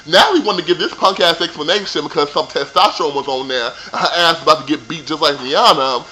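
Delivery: ordinary talk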